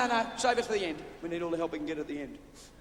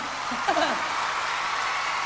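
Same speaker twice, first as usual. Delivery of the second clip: burst of laughter; 7 semitones higher, 6 dB louder than usual. Real, not acted. Audience laughs, he laughs.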